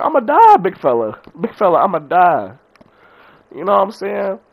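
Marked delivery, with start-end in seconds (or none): 0.0-2.5 high, loud hammed-up panic; mock panic. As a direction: squeal it like you're doomed. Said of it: "I was like".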